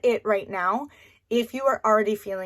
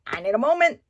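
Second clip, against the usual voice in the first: overwhelmed mom; 5 semitones higher, 6 dB louder than usual. Retold or imitated. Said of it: "be like".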